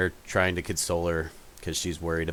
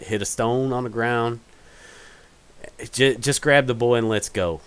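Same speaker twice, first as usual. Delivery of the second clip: N=Roberta/character; 4 semitones higher than usual. Acted. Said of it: "you hear Roberta say".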